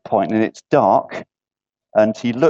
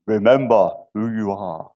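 lightly voiced Mufasa; 2 semitones lower than usual. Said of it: "think of old Mufasa, and he says".

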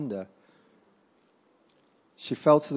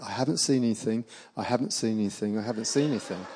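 mock police officer, lower and repetitive; lower, understated repeated denial; feigned obliviousness; 4 semitones lower, 4 dB quieter, faster than usual. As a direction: lightly imitate someone pretending not to notice. Police feign not noticing, retold.

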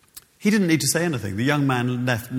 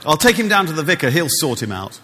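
exasperated mother; 4 semitones higher, 5 dB louder than usual. Retold or imitated. Mother voiced in story.

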